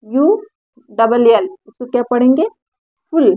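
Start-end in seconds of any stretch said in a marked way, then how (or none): 3.1-3.3 "पुल" as one brief syllable, short oo; teacher's demo of short-vowel "पुल". Shown as a demonstration. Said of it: "छोटा ऊ करके पढ़ेंगे".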